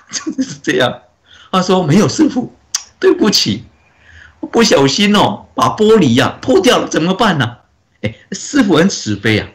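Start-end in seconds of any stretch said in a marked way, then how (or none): 1.8-7.6 put-on child voice. Child apologizing to the master.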